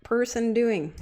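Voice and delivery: slow, baffled mock voice; a hint of a bewildered onlooker; mock puzzled bystander. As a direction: voice the onlooker's confusion, slowed. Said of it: "Galvatron's gonna think I'm a total idiot".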